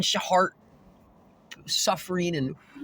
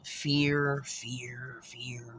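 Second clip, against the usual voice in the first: fear repeated, fading softer each time; fading to nothing; 6 semitones lower, 9 dB quieter, much slower than usual. Shown as a demonstration. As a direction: let fear die away into silence. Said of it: "repeated word fading".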